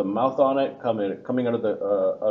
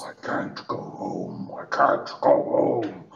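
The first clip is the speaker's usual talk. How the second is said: very slow, low, creaky, grinding rock-cracking rumble; 4 semitones lower than usual. Voicing a big elemental repeating a statement: low rock-cracking voice. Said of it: "in this low rock cracking sort of way".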